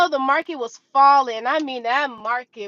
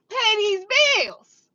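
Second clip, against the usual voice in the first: tearful plea; 7 semitones higher, slower than usual. Retold or imitated. Retold prayer about bills.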